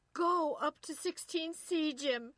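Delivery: high, loud frantic scream; urgent shriek for help. A narrator's reading. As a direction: scream it out, drawing out the command. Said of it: "she screamed".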